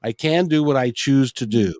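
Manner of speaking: slow, emphatic self-affirmation; measured and resolute, with weighty pauses; deliberate affirmation. Retold or imitated. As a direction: declare it slowly, word by word. Retold self-affirmation, stated deliberately.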